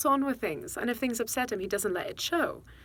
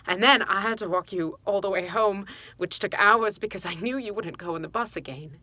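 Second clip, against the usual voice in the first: worked-up, louder retelling of an ordeal; exasperated; 2 semitones higher, 5 dB louder than usual. Acted. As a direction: relive the frustration, pushing out the stressed words. Mother reliving shop meltdown, cross.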